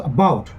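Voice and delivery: "about" with BOUT brought out; light first syllable, prominent second in "about"; stress on second syllable. Shown as a demonstration. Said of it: "that second syllable is stressed".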